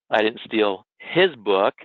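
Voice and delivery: his lifted and stretched, slow; stress on HIS. Shown as a demonstration. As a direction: hit the word his. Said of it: "emphasize the word that's highlighted".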